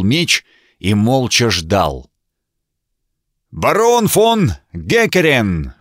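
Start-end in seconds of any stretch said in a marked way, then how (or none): 3.5-5.7 громкое, торжественное объявление, медленно и выше; провозгласить титул на всё поле; громогласно. A narrator's reading. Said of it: "провозгласил всадник громогласно". (рыцарь громогласно объявляет барона, медленно)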